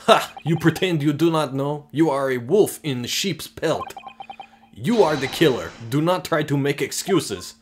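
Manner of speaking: put-on loud, heavy-accented furious officer; angry accusation. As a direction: nail him as the killer, shouting. Russian sailor accuses hero of murder.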